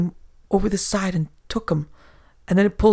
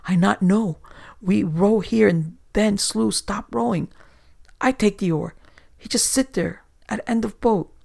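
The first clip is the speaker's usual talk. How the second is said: higher, broken-English terrified sailor; a shaking man reliving the horror, rising pitch; whimpering foreigner; 4 semitones higher than usual. Acted. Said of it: "whimpered the other".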